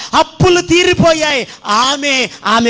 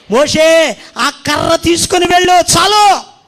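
higher, louder divine command; commanding God; 4 semitones higher, 3 dB louder than usual. Acted. God sends Moses off, a louder higher command. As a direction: call down the order with authority.

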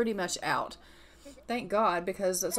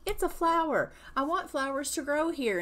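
mock exasperated outburst; 5 semitones higher than usual. Imitating the wife snapping at Marcus about flowers. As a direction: play the fed-up wife insisting on flowers. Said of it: "And she's like".

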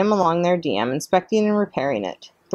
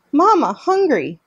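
put-on much higher, louder, slow baby plea; hungry gosling; 10 semitones higher, 4 dB louder, slower than usual. A narrator's reading. Gosling begging his robot mother for food, high and slow. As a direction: squeak it like a hungry chick. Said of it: "Bright Bill started peeping".

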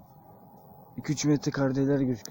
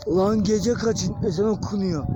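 tense fear; 5 semitones higher, 4 dB louder, much slower than usual. Real, not acted. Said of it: "Sinir, korku".

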